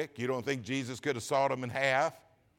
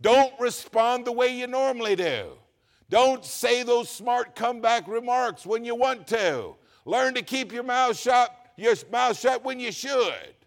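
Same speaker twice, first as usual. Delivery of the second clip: yelled, higher-pitched pulpit exhortation; hard preaching; 6 semitones higher, 3 dB louder than usual. Real, not acted. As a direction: preach hard, hammering every command. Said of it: "why do you preach so hard".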